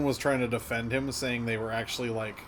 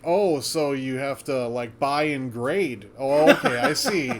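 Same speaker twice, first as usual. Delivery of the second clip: mock sarcasm; 4 dB louder, slower than usual. Imitating sarcastic commenters on a card grader's ad, mock-sincere. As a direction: imitate commenters playing dumb with heavy sarcasm. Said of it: "It is a lot of sarcasm".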